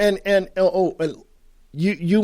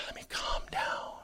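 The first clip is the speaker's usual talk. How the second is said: hushed whisper to himself; 19 dB quieter than usual. Real, not acted. Host calming himself down after his rant, whispered. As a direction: breathe it out almost to yourself.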